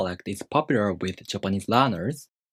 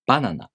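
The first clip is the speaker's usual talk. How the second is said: banana high on ba, falling through nana; head-high accent; faster than usual. Shown as a demonstration. Teacher giving an example of the pattern, banana in head-high accent. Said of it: "The pattern for this word is head high".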